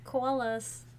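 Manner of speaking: New Jersey accent on call us. Shown as a demonstration. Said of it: "I was trying to use my New Jersey accent".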